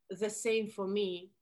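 slow audition line in a heavy Russian accent; thick Russian accent, each word drawn out; exaggerated Russian accent. Shown as a demonstration. Character orders a drink at the bar, strong Russian accent. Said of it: "I exaggerated the T H sound".

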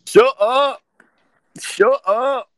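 mock shout, high and loud; hammed-up furious shout; imitated angry yell. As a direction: yell it back like an annoyed friend.

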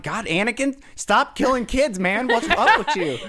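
high, loud, laughing mock scold; mock exasperated scolding. Mock scolding Anakin for killing kids.

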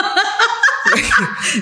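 sudden high-pitched laugh; high burst of laughter. Real, not acted. Laughs at the unfinished question.

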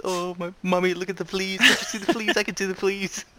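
high, fast, like a chipmunk; squeaky excited old man; grandiose flea circus showman. Retold or imitated. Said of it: "He's just talking so high-pitched and so fast".

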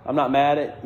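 smooth it over with a chuckle; laughing apology. Retold or imitated. Apologizing to defensive clerk.

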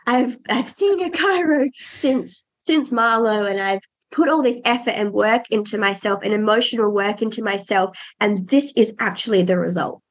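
lightly voiced proud inner monologue. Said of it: "I'm like".

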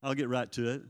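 "I'll get right to it" with the stress on "get" and a rising end; knowing mock promise. Shown as a demonstration. Preacher mimicking the promise to congregation, wry. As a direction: tease the empty promise everyone makes with a lift on "get". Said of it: "how many have ever said that?".

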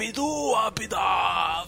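retold incantation. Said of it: "E mandava um".

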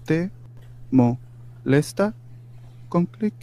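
"¿Te molesta con clic?" in slow, separated chunks with pauses; syllable by syllable.

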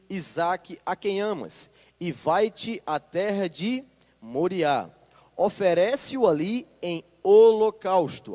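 slow, solemn Bible reading to the congregation; deliberate pulpit reading; scripture reading. Acted. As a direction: read the passage with weight, word by word. Pastor reads Genesis 22 aloud.

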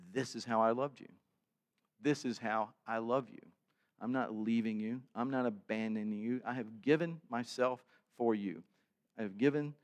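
gentle, earnest promise; tender assurance. Acted. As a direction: speak as God comforting his people. God speaking love at communion.

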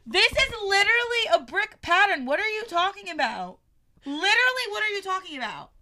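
real high-pitched exasperation; insist, incredulous at being contradicted; indignant arguing. Real, not acted. Co-host arguing over a brick pattern, indignant.

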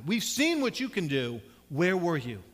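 loud demand for an answer; angry, frustrated reproach. Acted. Martha demands where Jesus was, angry and frustrated. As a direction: press the accusation home, frustrated and forceful. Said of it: "in that anger and that frustration".

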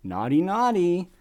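mock-naughty teasing with drawn-out swoops. Film teasing its young female audience, mock-naughty. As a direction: coo it like a playful tease. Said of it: "trying to tease and excite".

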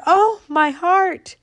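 very high, loud, slow "Oh, my heart"; joyful cry. Acted. Growing acorn crying out in joy. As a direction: burst out in wonder. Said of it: "till she cried out".

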